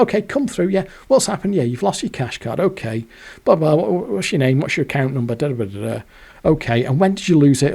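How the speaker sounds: bank clerk. Retold or imitated.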